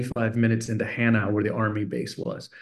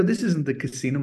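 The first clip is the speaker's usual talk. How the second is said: put-on slightly higher, puzzled kid's objection; retold protest, pitched up; mock protest; 4 semitones higher than usual. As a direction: object like a confused child. Boy protests to his dad.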